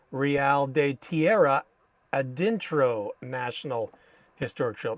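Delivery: Spanish names in a thick American accent. Real, not acted. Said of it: "Man, I sound like a gringo saying those".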